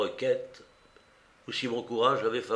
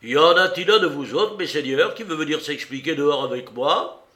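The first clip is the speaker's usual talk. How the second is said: much louder, higher bellowed dare; roaring challenge; 4 semitones higher, 7 dB louder than usual. A narrator's reading. Silver challenging the mutinous crew to fight, roaring. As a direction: roar it down at the whole crew. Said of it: "rugit Silver".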